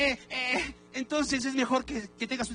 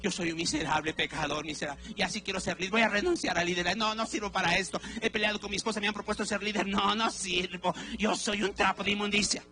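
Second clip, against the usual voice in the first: self-pitying sinner. Retold or imitated. Congregant talking to himself, in mild self-pity. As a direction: whine that you are worthless. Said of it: "¿Cómo terminas diciendo?".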